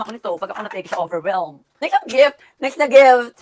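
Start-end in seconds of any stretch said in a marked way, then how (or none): 1.8-3.4 excited call. Real, not acted. Eager to open next gift.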